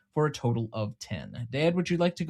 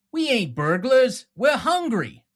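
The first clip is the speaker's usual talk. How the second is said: pleading shout; 8 semitones higher, 6 dB louder, slower than usual. Retold or imitated. Quoting film line.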